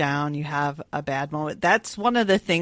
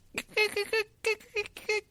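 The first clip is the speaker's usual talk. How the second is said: mock cat noise; 6 dB quieter than usual. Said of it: "he starts making this".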